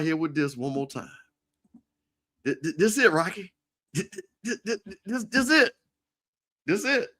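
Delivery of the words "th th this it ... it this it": excited. Real, not acted. Excited farewell with laughter.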